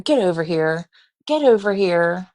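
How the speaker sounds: casual, unhurried call to a dog; mock-calm call, no alarm at all. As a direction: imitate someone calling a dog with no urgency. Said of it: "Very calm, not like the dog is about to take my life".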